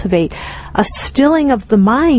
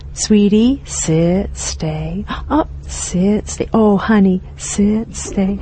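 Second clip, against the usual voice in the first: soft, tender coaxing like to a puppy; kind and gentle; 3 dB quieter, slower than usual. Shown as a demonstration. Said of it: "speak to myself in those kind ways".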